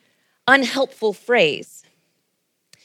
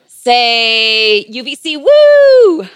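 group cheer; 7 dB louder, much slower than usual. Real, not acted. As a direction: whoop it up for a group selfie. Leads congregation cheer for selfie.

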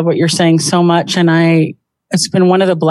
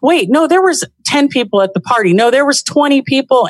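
higher-pitched, insistent correcting; mock squabble; 6 semitones higher than usual. Spouses correcting each other about the party, mock squabble. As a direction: bicker playfully over a small detail.

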